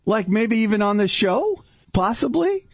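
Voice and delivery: playful teasing. Real, not acted. Teasing host pushes for singing.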